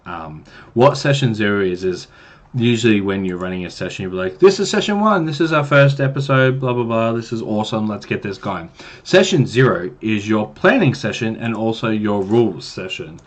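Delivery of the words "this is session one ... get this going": mock excited DM. DM kicking off a normal session.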